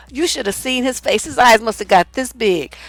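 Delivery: ordinary delivery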